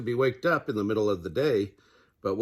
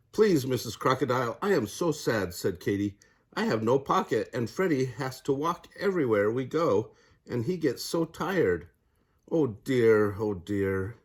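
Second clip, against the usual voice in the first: sad. Acted. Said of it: "she started to cry again".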